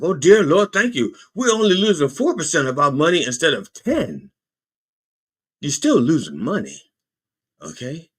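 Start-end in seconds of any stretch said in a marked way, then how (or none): 0.0-4.3 relieved investors. Retold or imitated. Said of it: "They're like".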